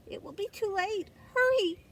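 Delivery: high, loud urging cry; urgent hurry. A narrator's reading. Narrator urging the late seed to hurry, urgent. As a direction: urge the little seed on, pitch climbing.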